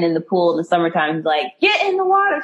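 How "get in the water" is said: high, loud mock yell; hammed-up shout at his girlfriend; imitated yelling. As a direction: bark the order like an angry boyfriend. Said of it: "he's yelling at her".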